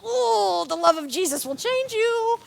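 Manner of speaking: high, sugary preachy coo; sweet churchy voice. Retold or imitated. The coach sweetly answers catty thirteen-year-olds. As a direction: coo it like a saccharine church lady. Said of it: "and I'm just like".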